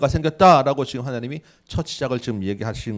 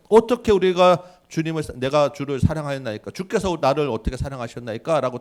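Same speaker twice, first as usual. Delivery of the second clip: arguing back; 3 semitones higher, 5 dB louder than usual. Retold or imitated. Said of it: "따지는 것처럼".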